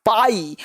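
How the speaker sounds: "पाई" alone, with the eye vowel held; syllable drill. Shown as a demonstration. Teacher breaks the word down for students, "पाई" with a long eye sound. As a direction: isolate "पाई" as a drawn-out syllable. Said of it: "आई का sound क्या".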